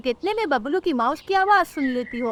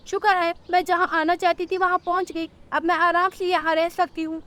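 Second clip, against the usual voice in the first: put-on higher-pitched, mildly relieved old bird; 5 semitones higher than usual. Old bird reaches her chosen refuge alone, relieved.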